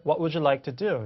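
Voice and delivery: "would you" joined as wu-joo; linking demo. Shown as a demonstration. Teacher showing the result, "would you" linked with J. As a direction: blend "would you" with a J sound. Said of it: "이렇게 되는 겁니다".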